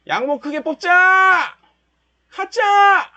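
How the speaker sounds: high, loud rooting shouts; root for the candle like a fan; cheering the market on. Real, not acted. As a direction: trader yelling at his chart to climb. Cheering the chart upward live.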